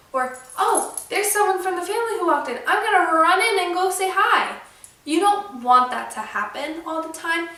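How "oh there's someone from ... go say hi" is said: eager, a bit higher voicing of the dog; excited dog voice. Owner voicing her dog's thoughts, higher and eager. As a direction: play the dog, thrilled someone's home.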